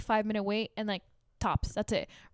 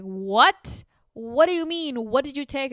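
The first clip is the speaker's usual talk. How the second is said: alarmed mom; 3 semitones higher, 5 dB louder than usual. Retold or imitated.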